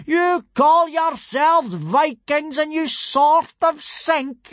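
high, loud, slow furious tirade; drill-sergeant dressing-down at full volume; roaring rage. A narrator's reading. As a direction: roar at the recruits, hammering every word. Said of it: "roared Gobber".

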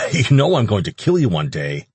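coughing while talking; between coughs. Acted. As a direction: push through a cough. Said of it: "Ash said between coughs".

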